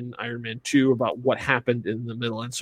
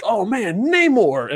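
excited; 9 semitones higher, 3 dB louder, slower than usual. Retold or imitated. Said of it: "him showing up was a big deal".

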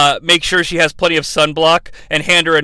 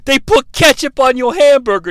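thuggish customer; 6 semitones higher, 4 dB louder than usual. Retold or imitated. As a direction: drag out the taunt like a bully. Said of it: "thuggish customers who were like".

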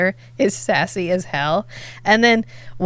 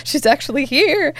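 awed; 7 semitones higher than usual. Retold or imitated.

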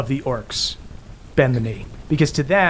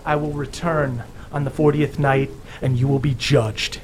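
a lightly booming, solemn pronouncement; 2 semitones higher than usual. Acted. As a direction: proclaim it like a stern deity. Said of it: "continues with a booming voice and goes".

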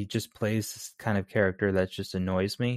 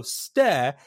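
English stair; 2 semitones higher, 3 dB louder than usual. Retold or imitated. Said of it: "like she's beginning a word in, in English".

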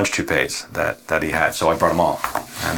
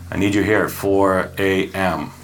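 a light take on the uncle's slow phone order; lightly voiced boss on the phone, a touch slower; Buddy's voice; 2 semitones higher, much slower than usual. Nephew imitating Buddy calling from prison, lightly voiced. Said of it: "in Buddy's voice".

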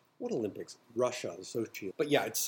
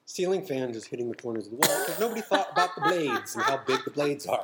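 laughing; 3 semitones higher, 4 dB louder than usual. Real, not acted. Laughing at the picture.

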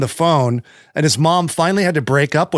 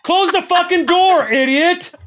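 much higher, slower hammed-up screaming; mock furious yell; slower than usual. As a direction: scream a mock tirade at someone barging in. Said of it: "then he'd be like".

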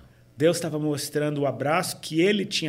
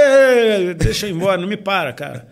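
annoyed brush-off; 4 semitones higher, 9 dB louder than usual. Retold or imitated. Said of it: "nego me para na rua e fala".

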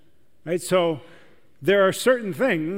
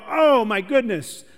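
awed gasp; 4 semitones higher, 3 dB louder than usual. Retold or imitated. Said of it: "some people who went".

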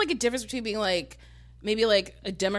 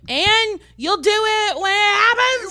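higher, louder, slower exasperated cry; exasperated outburst; 13 semitones higher, 11 dB louder, slower than usual. Retold or imitated. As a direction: spell it out, fed up and loud. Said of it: "And I'm like".

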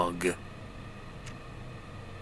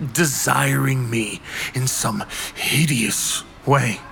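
hushed creeping horror. Acted. Narrating dread of unseen presence.

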